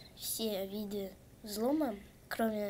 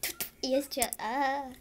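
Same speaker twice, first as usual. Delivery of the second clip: russian street thug; 5 dB louder than usual. Pretend. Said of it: "я как гопник".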